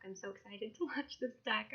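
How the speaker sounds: laughing mid-sentence, tongue-tied with excitement; real giddy laughter; flustered laugh. Real, not acted. Excited creator fumbles her words with a laugh. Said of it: "I can't talk".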